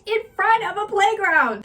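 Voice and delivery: high mom voice. Retold or imitated. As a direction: coax like a cheerful mom. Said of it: "and then she's like".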